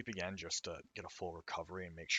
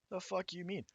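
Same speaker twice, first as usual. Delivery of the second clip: angry yell; 12 semitones higher than usual. Acted. Angry character yells.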